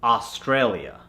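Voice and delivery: Australia starting on an open "ah"; American accent. Shown as a demonstration. Coach gives the converted word, American accent. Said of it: "to the American accent".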